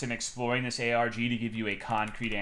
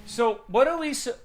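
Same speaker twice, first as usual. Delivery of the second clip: 1 sudden excitement; 12 semitones higher, 4 dB louder than usual. Real, not acted.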